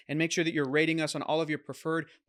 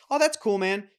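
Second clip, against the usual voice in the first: friendly; 4 semitones higher, 3 dB louder than usual. Retold or imitated. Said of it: "I've shifted from like".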